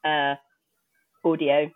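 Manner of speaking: crackly, distorted laptop mic; speaking through crunchy, broken audio. Real, not acted. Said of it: "apologize for my crunchy, uh, audio".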